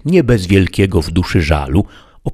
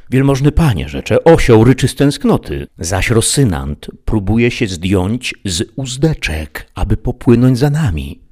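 a higher, grieving squire voice; tearful Sancho; 5 semitones higher than usual. Acted. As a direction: plead with your master near tears. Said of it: "zaczął płakać żewliwie".

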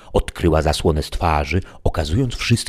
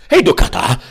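indignant squire's outcry, pitched up; calling out; 10 semitones higher, 6 dB louder than usual. A narrator's reading. Sancho interrupts Merlin's sentence of lashes, crying out indignantly. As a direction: cry out in mild acted protest. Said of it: "zawołał wtem Sancho Panza".

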